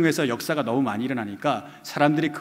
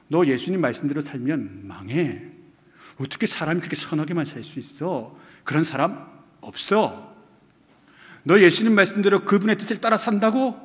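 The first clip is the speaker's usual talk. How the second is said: mock Satan tempting; 3 semitones higher than usual. Satan taunting a believer, lightly voiced sly temptation. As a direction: coax like the devil talking a believer out of faith.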